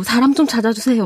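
put-on light North Korean accent, pleading. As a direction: mimic a North Korean woman asking for help. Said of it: "북한 말투로".

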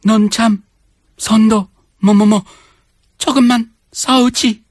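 high, fast, pushy auntie scolding; loud pushy korean auntie. Acted. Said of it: "Sounds like a little old woman".

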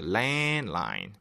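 low-pitched "Landline" with a long first vowel and barely any d; drawn-out A. Shown as a demonstration. Teacher telling learners to drag the vowel, long a in "Landline". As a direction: stretch the a in "Landline": "laaan-line". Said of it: "A 발음 끌어주세요".

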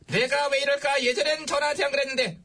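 demonstrated marching call; marching slogan. Shown as a demonstration. King teaching the duck-walk slogan, chanted call. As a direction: set the slogan for the team to follow. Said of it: "구호도 붙여".

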